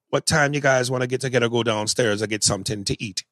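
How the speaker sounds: attempted Jamaican accent, held steady. Shown as a demonstration. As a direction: have a go at a fluid Jamaican accent. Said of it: "I'm not the best Jamaican accent".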